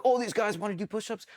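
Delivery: snide instructor taunt; mocking cadre. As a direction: tease them like a cadre spotting push-ups. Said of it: "they're like".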